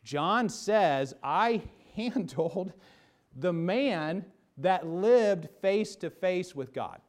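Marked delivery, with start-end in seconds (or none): 1.2-7.0 awed exclamation. Acted. Preacher voicing John's testimony.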